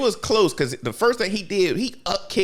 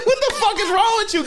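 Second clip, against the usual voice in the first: laughing outrage; faster than usual. Real, not acted.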